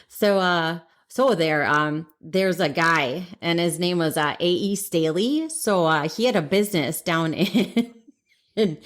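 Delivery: lightly put-on Wisconsin accent. Host retelling Bears history on request, playful Wisconsin accent. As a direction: tell it with a Wisconsin twang. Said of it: "in your Wisconsin or Chicago accent".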